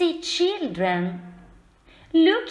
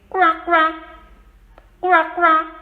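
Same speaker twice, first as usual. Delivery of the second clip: louder, playful quacking; loud duck quacks; 5 dB louder than usual. Pretend. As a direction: shout the duck sound to the class. Child shouts duck noises.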